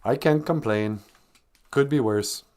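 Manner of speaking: understated, slow "Oh, not bad"; lightly voiced modest Minnesotan. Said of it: "a very modest".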